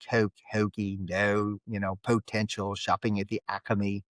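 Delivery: South Jersey accent on the vowels; Philadelphia accent. Shown as a demonstration. Speaker demonstrates his own local words, Philadelphia accent. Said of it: "I have a Philadelphia, South Jersey accent".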